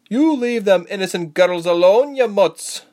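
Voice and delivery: loud, high-pitched scolding; fierce warning shot at bullies; angry challenge. A narrator's reading. Confronting soldiers attacking the girls.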